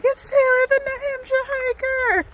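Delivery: high excited call from a car; excited shout. Retold or imitated. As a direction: call out, thrilled to spot her. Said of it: "she was like".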